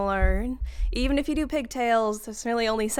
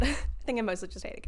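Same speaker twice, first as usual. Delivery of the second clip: softer, with a laugh, "I think I mostly just hate it"; amused, trailing off; laughing repeat; 6 dB quieter than usual. Real, not acted. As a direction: repeat it through a chuckle, quieter.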